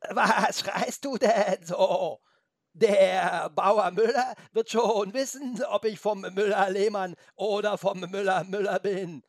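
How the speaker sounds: high, slow, wobbly goat bleat. A narrator's reading. Puzzled goat answers shouting Felix, bleating. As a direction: bleat it with long drawn-out vowels. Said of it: "Dann sagte sie".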